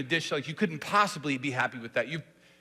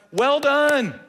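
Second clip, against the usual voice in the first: high, loud praise; celebrating; 8 semitones higher, 8 dB louder than usual. Shown as a demonstration. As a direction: burst out proudly. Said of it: "the reply's gotta be building".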